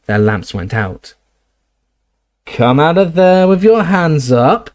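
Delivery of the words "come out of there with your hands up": slow, louder rasping snatcher. Acted. Snatcher ordering the hidden trio out, rasping. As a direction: growl the order out into the dark. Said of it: "rasping voice through the darkness".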